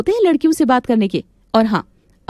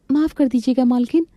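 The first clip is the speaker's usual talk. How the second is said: higher, meek servant voice; timid maid; 3 semitones higher than usual. Acted. Maid Manjari answers her mistress, meek and high. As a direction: hand over the tea, eager to please.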